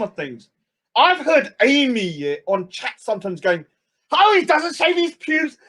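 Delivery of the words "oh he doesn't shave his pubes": high mock wail; imitating Amy wailing. Imitating Amy on chat, wailing about his pubes. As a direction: wail it like a scandalised gossip. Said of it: "she's literally screaming in her back garden".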